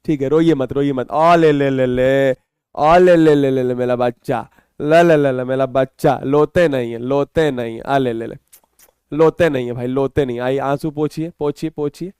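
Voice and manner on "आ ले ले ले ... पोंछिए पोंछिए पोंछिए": put-on lower, cooing baby talk with l for r; mock baby talk. Teacher soothing crying students, mock baby talk. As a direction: console them as if they were tiny babies.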